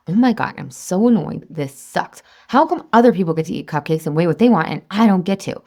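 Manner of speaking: acted-out exasperated complaint; a touch of put-on indignation; mock annoyed whining. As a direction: grumble at how unfair it is, playing it up. Acts out her annoyed past self.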